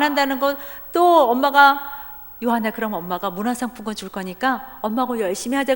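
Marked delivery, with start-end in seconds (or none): 2.4-5.7 softer sweet coaxing. Retold or imitated. Mother coaxing her son with a gift card, softly. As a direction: bribe him gently. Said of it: "꼬셔가지고는".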